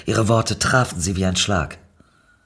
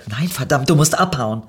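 urgent; 4 semitones higher, 4 dB louder than usual. Acted.

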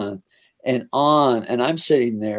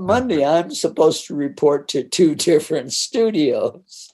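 panicked; 4 semitones higher, 4 dB louder than usual. Retold or imitated. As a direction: realise the mess with laughing dread. Panic continues.

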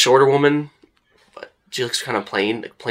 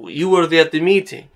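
raised theatrical lilt; flamboyant actor; 7 semitones higher, 4 dB louder than usual. Acted. Actor recognizing visitors from the meeting, flamboyantly. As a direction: swoop up with a flourish. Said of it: "he's very flamboyant".

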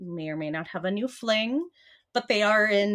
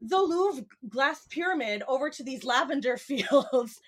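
excited tourist; 4 semitones higher than usual. Pretend.

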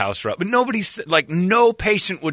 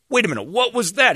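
shocked; 10 semitones higher than usual. Pretend. Imagined objection.

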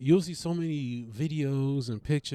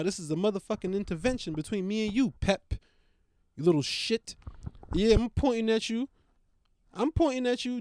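scolding dog; 3 semitones higher, 4 dB louder than usual. Real, not acted. Lecturing the dog.

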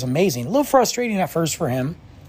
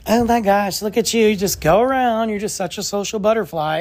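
lightly voiced gushing mom, a bit higher; hint of a doting suburban mom; a mild parody of a mom on her phone; mock Frisco mom; 5 semitones higher than usual. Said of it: "just being a typical Frisco mom".

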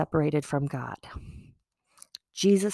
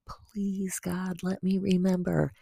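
whispered prayer. Real, not acted.

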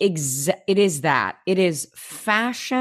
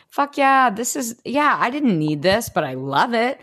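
excited; 5 semitones higher than usual. Retold or imitated. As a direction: blurt it out with glee. Excited quote of own reaction.

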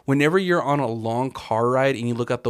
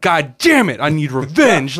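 louder mock frustrated curse; mock angry; 2 semitones higher, 5 dB louder than usual. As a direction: fake furious on waking. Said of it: "you wake up being like".

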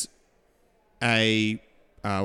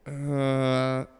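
unsure guess; much slower than usual. Retold or imitated. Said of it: "And the guy goes".

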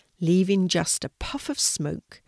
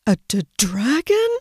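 loud, higher, stammered question; frightened exclamation; 4 semitones higher, 7 dB louder than usual. A narrator's reading. Sea turtle learning of the dragon, alarmed. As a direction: blurt it in stuttering alarm. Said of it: "exclaimed the sea turtle".

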